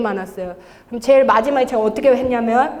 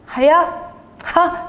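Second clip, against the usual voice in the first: light, breathy scoff in short bursts; 2 semitones higher, much slower than usual. Retold or imitated. Testifier retelling how laughable the demon looked, scoffing. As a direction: puff out a dismissive little laugh. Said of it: "얘가 가소로우니까".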